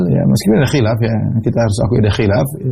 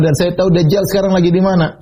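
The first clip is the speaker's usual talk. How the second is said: laughing through the quote; 5 semitones higher than usual. Retold or imitated. Retelling Ibnu Sayyad's boast, laughing.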